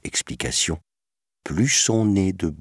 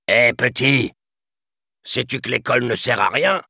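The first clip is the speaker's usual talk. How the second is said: perfide; 8 semitones higher than usual. A narrator's reading. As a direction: chat rusé qui insinue, voix aiguë. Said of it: "insinua perfidement Grand Coquin". (voix perfide et enjôleuse)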